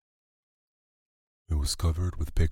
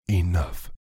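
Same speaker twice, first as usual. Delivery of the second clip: loud, higher mother's shout; 4 semitones higher, 5 dB louder than usual. A narrator's reading. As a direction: cut them off with a sharp shout. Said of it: "Missus Budwing shouted".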